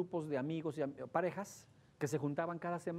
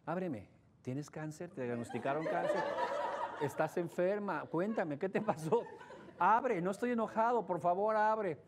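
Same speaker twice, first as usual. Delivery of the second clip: pleading husband; 3 semitones higher than usual. Retold or imitated. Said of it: "va a tocar la puerta".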